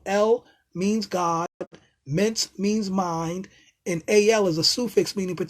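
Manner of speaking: each part spelled out very slowly; slow breakdown. Shown as a demonstration. Teaching viewers the word elemental, very slow. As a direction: lay out the word roots deliberately. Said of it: "The word elemental".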